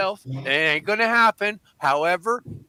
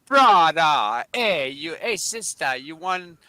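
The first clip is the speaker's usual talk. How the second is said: Hawaiian accent. Shown as a demonstration. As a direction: put on a Hawaiian local's accent. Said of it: "a Hawaiian kind".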